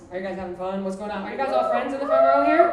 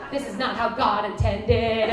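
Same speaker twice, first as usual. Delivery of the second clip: slow, sing-song righteous pronouncement; mock preacher. Comic voicing a mock conservative, slow and preachy. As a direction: intone it like a pious preacher.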